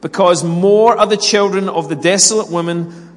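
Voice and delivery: loud, emphatic Bible reading with measured pauses; declaimed scripture. Acted. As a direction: proclaim the verses, stretching out key words. Reads scripture aloud to congregation.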